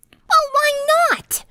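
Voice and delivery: very high, slow, defiant challenge; brash bark. Acted. Rainbow Dash barks back at Fluttershy, defiant. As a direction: fire it back, tomboy attitude. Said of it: "Dash barked".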